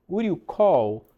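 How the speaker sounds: "call" ending on a clear L; tongue up for the L closing "call". Shown as a demonstration. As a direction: finish "call" on a true L, never a w. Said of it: "fazer esse call com L, com a língua lá em cima".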